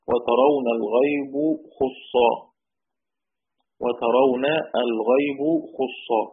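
slow, measured chant of the verse; slow verse recitation. Shown as a demonstration. Teacher reading the Shatibiyya line aloud to the class, slowly. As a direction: draw out each word of the poem line. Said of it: "قال الشاطبي رحمه الله".

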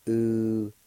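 "Uhlistan" with a faint breathy h between the u and the l; faint H sound. Shown as a demonstration. Teacher shows the faint H sound in the first part. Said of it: "it's pronounced like this".

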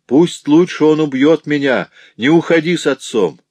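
high and loud, crying out from the floor; desperate shout. Acted. Beaten mother to daughter, desperate shout. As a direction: scream it to stop your daughter leaving. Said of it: "всё же крикнула Катрин".

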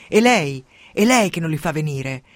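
1 furious accusation. Acted. Jolly attacks Rannusia.

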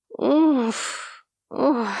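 pained groans; moaning groan. A narrator's reading. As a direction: moan from upstairs. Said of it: "громкие стоны Хенни".

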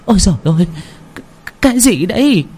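put-on high startled old mother's voice; old woman cry. A narrator's reading. Old mother robbed by her son, crying out high. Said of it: "thì hô lên".

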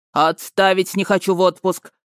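barked command. Acted. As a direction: order it sharply. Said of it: "скомандовал генерал".

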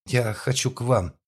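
high, slow tipsy murmur; a drunk woman babbling; drunken babble. Acted. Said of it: "пролепетала она".

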